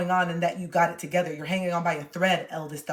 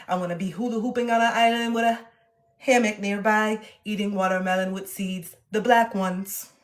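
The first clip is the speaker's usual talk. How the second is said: savoring it. Real, not acted. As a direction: draw the words out lovingly. Repeats fantasy slowly.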